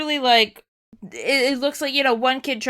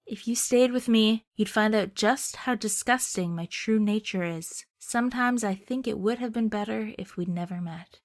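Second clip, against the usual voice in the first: tender farewell; 5 dB quieter than usual. Acted. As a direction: confess it quietly as a goodbye. Joshua's farewell confession.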